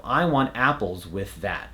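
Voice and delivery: airy TH in "with", then voiced TH in "that"; joined TH sounds. Shown as a demonstration. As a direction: finish "with" before "that", slowly. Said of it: "We want the "with" to finish before we say the "that".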